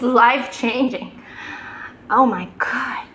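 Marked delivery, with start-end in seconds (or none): 2.1-3.1 awed whisper. Real, not acted.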